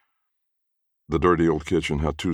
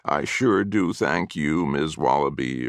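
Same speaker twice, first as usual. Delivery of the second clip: whining; slower than usual. Acted. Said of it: "he'd be whining things like".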